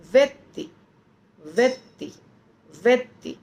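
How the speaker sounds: व्यक्ति said very fast with a short i, almost swallowed; व्यक्ति with a quick clipped short i. Shown as a demonstration. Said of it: "मतलब इतना जल्दी".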